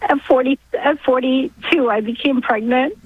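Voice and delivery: real tearful catch in the voice; halting, choked with feeling; emotional. Real, not acted. Caller recalling her late pregnancy, emotional. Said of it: "I get a little emotional talking about this".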